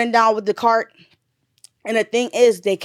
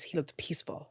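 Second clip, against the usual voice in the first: tearful; 6 semitones lower, 17 dB quieter than usual. Real, not acted. Grieving mother recalls son's death.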